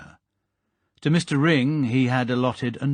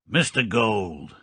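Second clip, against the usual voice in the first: sonorous; slower than usual. Acted. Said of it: "Jed Midnight pronounced sonorously".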